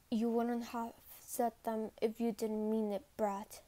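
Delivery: low voice with a slight smile; Levi. Acted. Corporal answering the cadet's apology, slight smile. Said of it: "said with a slight smile".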